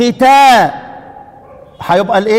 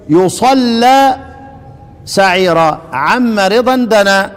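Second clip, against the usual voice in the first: slow verse recitation; much slower than usual. Acted.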